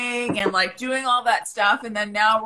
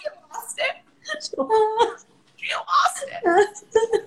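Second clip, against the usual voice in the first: put-on higher, drawn-out valley girl voice; 12 semitones higher, slower than usual. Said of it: "in a Valley Girl voice".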